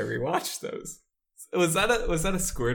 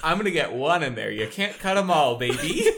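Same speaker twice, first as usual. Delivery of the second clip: laughing tease; 5 dB louder than usual. Real, not acted. Teasing, laughing.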